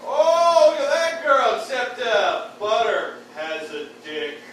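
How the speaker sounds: put-on oh-wow at the girl, then deadpan; mock gushing. Mock admiring guy.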